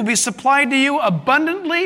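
"abundantly" given clear emphasis; stress on abundantly. Real, not acted. Preacher reading scripture to the church, stress on "abundantly". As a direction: lean on the word "abundantly". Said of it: "Stress the word abundantly".

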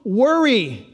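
slow tender comfort; gentle don't worry. Retold or imitated. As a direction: stretch it out to calm them. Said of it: "Jesus says".

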